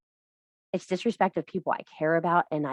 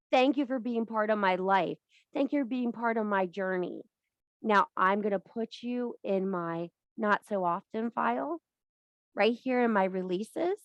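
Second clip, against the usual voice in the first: gentle release with love; 4 dB quieter than usual. Shown as a demonstration. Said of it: "release them with love".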